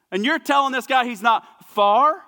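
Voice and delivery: can you believe it, preacher punches it out; incredulous rising question. Real, not acted.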